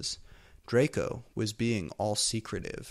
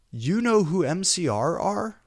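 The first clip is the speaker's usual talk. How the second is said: much higher, louder breathless hammed-up question; gasping surprise; 8 semitones higher, 5 dB louder than usual. A narrator's reading. Heroine gasping in mock shock at Dumbledore. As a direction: gasp it out, thrilled and shocked. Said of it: "I gasped".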